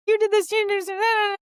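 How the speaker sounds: high, loud accusing shriek; mock freak-out. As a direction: screech the blame like you're losing it. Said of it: "freaking out".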